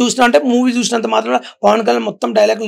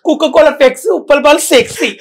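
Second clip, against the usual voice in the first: higher, louder hero-style punchline; rhyming punch dialogue; 8 semitones higher, 4 dB louder than usual. Shown as a demonstration. Uppal Balu repeats his own dialogue on request, loud and high. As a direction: fire off the rhyme like a movie hero. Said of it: "ఇందాక చెప్పు".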